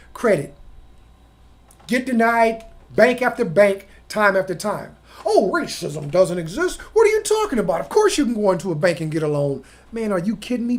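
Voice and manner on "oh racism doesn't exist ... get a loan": dismissive mock disbelief, pitch leaping on the challenge; mocking naysayer. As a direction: imitate a scoffing denier. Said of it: "People that speak like this".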